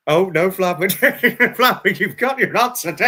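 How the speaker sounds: laughing exclamation. Real, not acted. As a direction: burst out laughing as you call her name. Cracking up at the answer.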